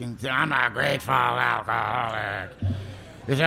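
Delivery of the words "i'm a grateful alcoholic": mocking an old-timer's proud shout; mock grateful alcoholic. Old-timer in AA announcing himself, mock proud shout. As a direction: ham up the smug sponsor's slogan. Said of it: "He was one of those grateful alcoholics".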